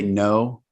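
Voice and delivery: a drawn-out, level "no"; varied tone demo. Shown as a demonstration. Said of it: "How am I saying it".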